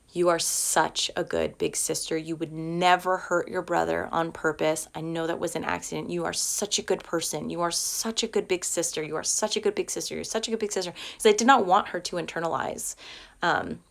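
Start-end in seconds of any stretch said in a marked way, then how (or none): 0.1-10.9 put-on soft, tender reassurance to a child; gentle comforting. Mother softly reassuring her upset daughter after the baby fell. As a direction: soothe her quietly, like holding her close.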